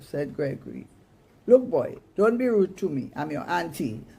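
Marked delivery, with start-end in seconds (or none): 1.5-4.0 sharp scolding auntie. Acted. Auntie scolds the rude boy, sharp and loud. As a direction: put the rude boy in his place.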